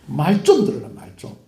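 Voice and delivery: exasperated Gyeongsang scolding, dropping at the end; Gyeongsang dialect. Shown as a demonstration. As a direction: punch it in Gyeongsang dialect, then drop away. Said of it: "저 경상도 말로".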